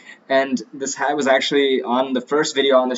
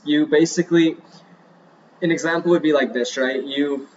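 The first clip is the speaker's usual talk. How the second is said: short of breath, talking between breaths; out of breath and needing air. Real, not acted. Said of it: "let me breathe for a moment".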